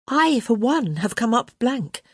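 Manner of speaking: put-on high, declaring old countess voice; crotchety countess. A narrator's reading. Lady Danbury speaks in the story.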